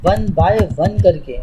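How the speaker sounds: very slow, word by word; spelling it out for voice typing, slowly; slow dictation. Shown as a demonstration. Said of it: "अब ऐसे नहीं बोलो".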